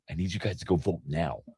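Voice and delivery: hushed whisper so nobody on set hears. Retold or imitated. To his friend on set, sneaking the phone, whispering. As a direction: whisper it low and urgent. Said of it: "I'm like, whispering this".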